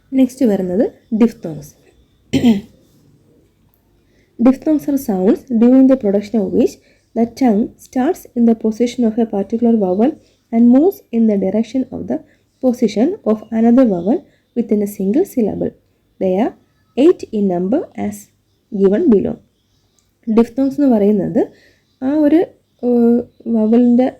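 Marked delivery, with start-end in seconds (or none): 4.4-15.7 slow dictation. Shown as a demonstration. Teacher dictating diphthong definition, very slow. 16.2-19.3 slow dictation. Shown as a demonstration. Continuing dictation.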